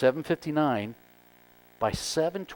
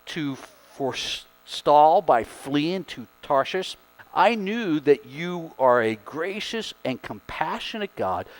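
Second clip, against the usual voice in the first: dramatic prayer; 4 dB louder than usual. Acted. Jonah's angry prayer read dramatically.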